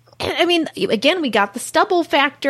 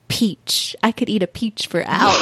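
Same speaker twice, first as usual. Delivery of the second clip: Nick Cage; 6 semitones lower than usual. Retold or imitated. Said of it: "I still remember him saying that".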